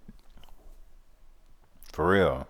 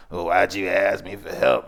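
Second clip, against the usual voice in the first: lightly mocked huffy comeback; mock offended. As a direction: imitate someone getting an attitude. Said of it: "they get an attitude".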